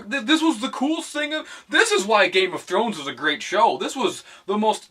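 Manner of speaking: high mock gushing fan voice. Vlogger mocking online fans, high gushing voice. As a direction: mimic the fans raving about the scene. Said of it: "People are".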